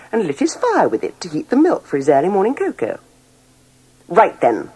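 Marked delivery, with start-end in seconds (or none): 4.1-4.7 cross. Acted. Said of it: "said the mayor crossly".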